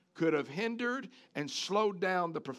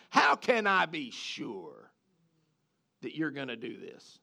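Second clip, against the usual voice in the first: argumentative; 6 semitones lower than usual. Retold or imitated. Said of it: "it's argumentative. It's, like, antagonistical".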